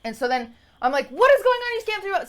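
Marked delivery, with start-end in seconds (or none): 1.1-2.3 high-pitched, exasperated disbelief; retold shriek of bafflement; incredulous outburst. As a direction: blurt it out aghast, voice shooting up. Retelling disbelief at friend's scam story.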